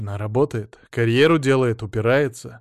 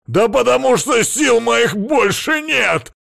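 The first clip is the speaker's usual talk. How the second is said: much higher, loud, slow outcry; desperate shout; 11 semitones higher, 8 dB louder, slower than usual. Acted. Husband at the end of his tether, desperate shout. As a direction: bellow out exhausted rage. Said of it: "ты опять кричишь".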